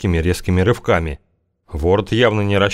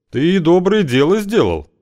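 fawning yet mocking; 10 semitones higher than usual. A narrator's reading. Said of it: "тоном не то заискивающим, не то глумливым".

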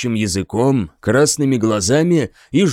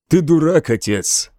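plain reading voice

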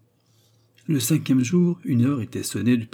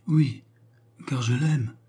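higher, gentle confession; gentle murmur; 4 semitones higher, slower than usual. A narrator's reading. Mary tells her brother she loves James, gently. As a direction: confess it sweetly, not whispered. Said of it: "murmura doucement Mary".

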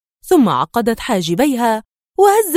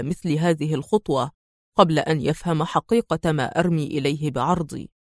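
calm hero; 4 semitones lower than usual. Acted. Adham's calm male voice.

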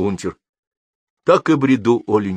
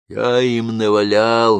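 vengeful; 4 semitones higher, 5 dB louder, slower than usual. A narrator's reading. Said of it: "мстительно промолвил он".

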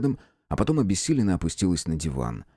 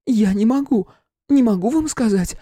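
babbling; 5 dB louder than usual. A narrator's reading. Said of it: "пролепетала она".

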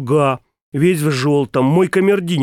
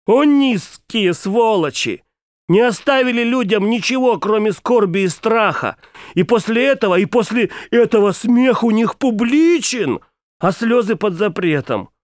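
indignant outcry; 6 semitones higher than usual. A narrator's reading. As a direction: rail against the scoundrels from the heart. Narrator rails against oppressors.

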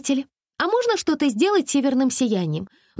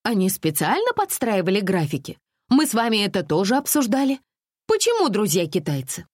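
higher, huffy indignant complaints; making a scene; 7 semitones higher than usual. A narrator's reading. Alisa makes a phone scandal with the tour manager, huffy and high. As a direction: threaten like a spoiled customer. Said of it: "Алиса была готова к скандалу".

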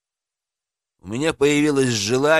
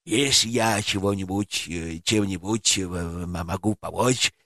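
flustered stammer; 6 semitones lower, 4 dB quieter than usual. A narrator's reading. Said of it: "покраснел он".

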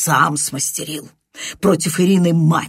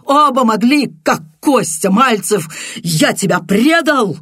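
high, loud cries broken by sobs; sobbing shout; 8 semitones higher, 5 dB louder than usual. Acted. Viktor shaking his friend's shoulder, shouting and sobbing. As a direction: shake him and cry out through tears. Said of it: "выкрикивая, всхлипывая".

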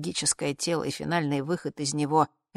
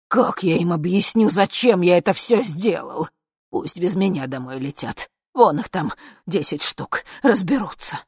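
louder, indignant grumble; 3 semitones higher, 8 dB louder than usual. Acted. Dictator refusing to go back, louder and indignant. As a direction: argue back, raising the voice.

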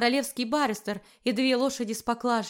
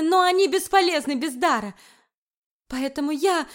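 higher, louder anguished outburst; furious confession; 5 semitones higher, 6 dB louder than usual. A narrator's reading. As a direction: confess it in fury and despair. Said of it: "выдохнула яростно".

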